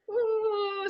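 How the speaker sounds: high, soft drawn-out "ooh"; mock overwhelmed "ooh". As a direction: let out a small high "ooh" at a hard day. Acting out hard days at work.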